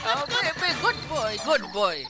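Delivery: squeaky praising a dog. Acted.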